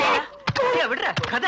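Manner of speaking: high-pitched yells to break it up; urgent, high yelling; frantic shouting. Acted. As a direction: shout at them to stop, pitch jumping. Breaking up a scuffle.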